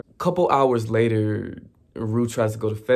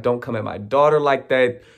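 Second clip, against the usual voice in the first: protective angry mom; 5 dB louder than usual. Retold or imitated. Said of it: "the mom is going at Maddie".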